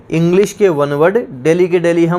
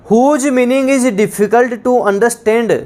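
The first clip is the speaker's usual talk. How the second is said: very slow, higher dictation of the definition; 4 semitones higher, much slower than usual. Shown as a demonstration. Teacher dictating to students, very slow and higher. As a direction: spell the phrase out word by word. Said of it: "dictating definition".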